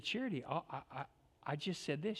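声を落として静かに「I just said this」; 大声じゃないと示すように小さく; soft quiet demonstration. Retold or imitated. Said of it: "I said".

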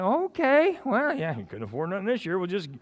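imitating family teasing over re-gifted boots; mock sarcastic. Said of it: "and I'm like".

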